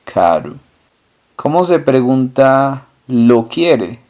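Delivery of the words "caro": caro said KA-ru, final o as u, low fall; Portuguese caro. Shown as a demonstration. Teacher contrasts Portuguese caro with Spanish. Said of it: "en portugués se dice".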